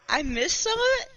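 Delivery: quick, high mock whine; imitating a friend. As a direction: squeak it out fast. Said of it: "He's like".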